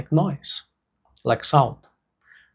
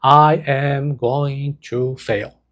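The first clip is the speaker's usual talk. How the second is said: slow read; much slower than usual. Shown as a demonstration. Therapist reads the fearful thought off paper, slowly. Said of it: "you can write".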